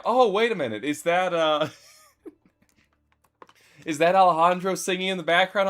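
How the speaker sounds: imitating commenters. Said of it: "on TikTok saying".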